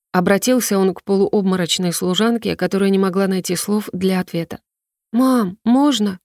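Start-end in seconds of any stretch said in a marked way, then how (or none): 5.1-6.2 put-on slow, hopeful child asking permission; hopeful plea. Boy asks his mother to let him stay, slow and hopeful. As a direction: stretch it out, hoping for yes. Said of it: "Голос ребёнка наполнился надеждой".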